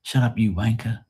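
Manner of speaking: lightly put-on British accent on "wanker"; English accent. Shown as a demonstration. Showing what English people say, mock English accent. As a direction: say it as the English would, dropping the R in "wanker". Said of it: "That's, like, what they say".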